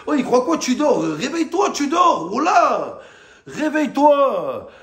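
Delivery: high, loud call to wake up; angry call-out. Real, not acted. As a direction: shout at the coach to wake up. Yelling at coach Tudor.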